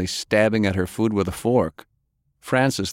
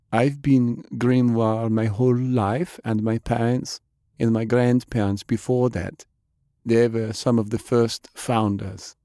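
Jane; 4 semitones higher than usual. Acted. Jane talks without looking up.

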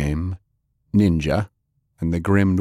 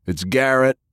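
shout; 7 semitones higher than usual. A narrator's reading. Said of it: "Lance shouted".

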